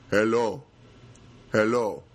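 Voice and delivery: put-on old neighbor's hello. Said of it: "he's learned to say".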